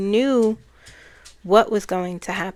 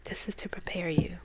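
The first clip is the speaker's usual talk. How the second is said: soft whisper, barely voiced; imitating her whisper; 7 dB quieter than usual. Goddess telling the speaker she is being prepared, in a soft whisper. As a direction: breathe the words out as a whisper. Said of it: "That's how she was speaking".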